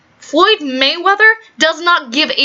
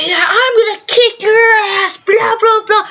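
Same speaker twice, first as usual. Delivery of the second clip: mock trash talk; 8 semitones higher than usual. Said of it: "they're going".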